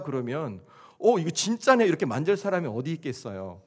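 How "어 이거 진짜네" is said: higher, louder burst of mock amazement; mock surprise. Imagined onlooker checking Jesus' wounds, mock surprised. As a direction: act out a startled discovery.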